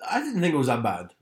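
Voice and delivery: sheepish whisper; unvoiced confession of liking it. Real, not acted. Admitting liking the play.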